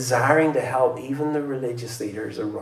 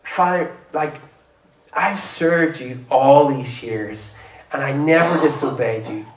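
a self-righteous son airing his grievance; indignant older brother; 2 semitones higher, 5 dB louder than usual. Acted. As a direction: complain to the father like the wronged son. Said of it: "he starts saying".

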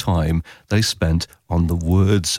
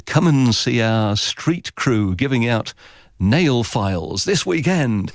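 mock promo headline; 3 semitones higher, slower than usual. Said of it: "the headline is".

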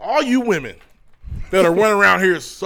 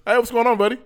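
code switching voice; 5 semitones higher than usual. Shown as a demonstration. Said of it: "I said".

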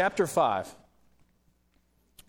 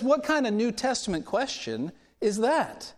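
high-pitched, mock-indignant questioning; retold incredulity, pitched up; incredulous challenge; 7 semitones higher than usual. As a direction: question it as if it's absurd. Acted indignant reply to worship leader.

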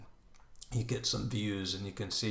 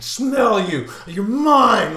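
loud, high possessive yell; 12 semitones higher, 14 dB louder, much slower than usual. Retold or imitated. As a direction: bellow it at your unseen quarry. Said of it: "I was just yelling".

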